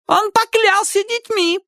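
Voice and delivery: very high, slow squeal; shrill. A narrator's reading. Wife defends herself to husband, shrill squeal. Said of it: "визгливо сказала женщина".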